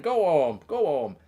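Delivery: lightly put-on moaning workmate voice; imitation of a whingeing colleague; Birchie. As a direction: mimic a workmate's mock moan. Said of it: "He'd be moaning".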